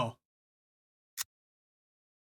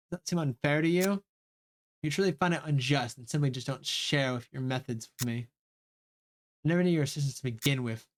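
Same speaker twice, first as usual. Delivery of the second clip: lightly voiced classmates trading jabs; heated character quarrel. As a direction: snipe back and forth, mildly heated.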